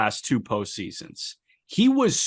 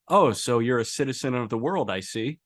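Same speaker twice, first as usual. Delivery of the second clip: deadpan. Retold or imitated. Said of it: "Castellanos deadpan goes".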